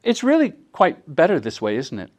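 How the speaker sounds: light mock British accent; a hint of polite British accent; understated British accent. Shown as a demonstration. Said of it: "say this with a British accent".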